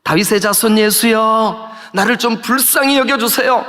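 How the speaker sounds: drawn-out plea called to someone passing; imitating a beggar's insistent cry; acted crying out. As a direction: call out the names with long, stretched endings. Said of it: "막 소리를 질러요".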